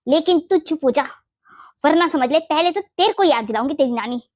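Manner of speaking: indignant mother-in-law laying down a vow; angry threats. Acted. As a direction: scold in protective anger, leaning on the key words. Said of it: "गुस्सा छोड़ दीजिए ना". (गुस्से में धमकाते हुए)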